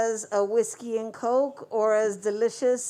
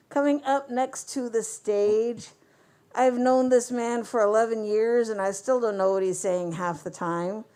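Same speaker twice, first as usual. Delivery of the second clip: muffled through a face mask. Real, not acted. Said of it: "talking through this mask".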